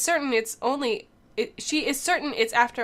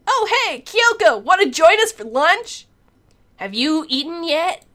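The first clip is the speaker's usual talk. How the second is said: laid-back surfer dude, slow; lightly voiced surfer guy; 6 semitones higher, 7 dB louder, slower than usual. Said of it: "You like my cool surfer voice".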